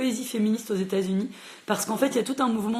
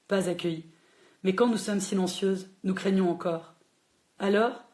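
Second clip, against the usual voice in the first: hushed, solemn reading of a poem. Acted. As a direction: let each line land like a litany. Reads a feminist poem aloud.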